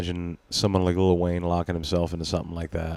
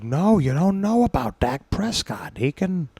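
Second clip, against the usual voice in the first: higher, insistent mock pundit voice; hammed-up sports-talk rant, pitched high; Skip impression; 8 semitones higher than usual. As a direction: argue like a riled-up TV debater. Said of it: "He's like".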